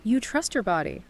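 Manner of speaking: calm guided-visualization voice with long pauses; measured, soothing meditation lead. Acted. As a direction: guide listeners gently into relaxation.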